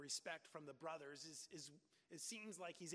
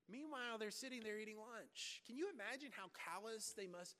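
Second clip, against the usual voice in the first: ordinary talk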